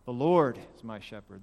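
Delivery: emphasize Lord, then let the line drop; stress on LORD. Shown as a demonstration. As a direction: LORD weighted, the rest falls away. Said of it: "emphasize one word at a time".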